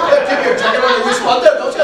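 high, imitated Donegal accent; baffling thick Irish brogue, played for laughs; northern Irish accent. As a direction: mimic an insistent northern Irishman. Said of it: "Eamon Malloy was from the north of Ireland".

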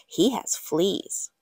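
slow whispered gossip; secretive whisper. Acted. Girl gossiping to her garden, slow whisper. Confiding to the soil.

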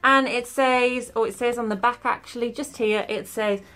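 talking with limited jaw movement; careful lips under face mask; wearing a sheet face mask. Real, not acted. Seen 1: Wet sheet mask covers her face throughout; R frames show no mask on.

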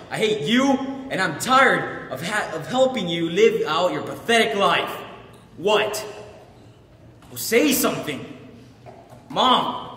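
fed-up, emphatic outburst; angry outburst. Acted. Son venting at his mother, angry. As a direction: lash out, then demand a response.

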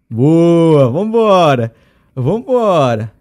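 loud drawn-out victory call; loud cheer. Real, not acted. Celebrating to viewers, loud drawn-out cheer. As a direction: stretch the last word like a cheer.

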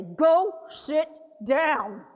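worn-out caregiver telling him off; exasperated caregiver. Retold or imitated. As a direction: snap it out in frustration. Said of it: "turn around at some point and say".

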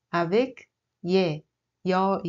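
slow, drawn-out "yé" then "yoi"; vowel demo. Shown as a demonstration. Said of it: "Oui, c'est". (voyelles « yé », « yoi » étirées lentement)

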